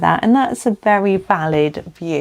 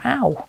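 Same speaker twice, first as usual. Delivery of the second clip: pained ow; 7 semitones higher than usual. Real, not acted. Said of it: "just stubbed my toe".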